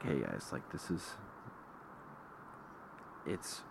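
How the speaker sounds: steady, even advice; calm. Retold or imitated. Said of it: "I calmly go talk to the guys".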